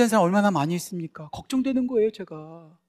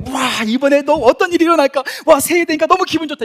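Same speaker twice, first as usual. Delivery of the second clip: mock excited; 6 semitones higher, 5 dB louder than usual. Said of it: "이러신 분들 있으세요".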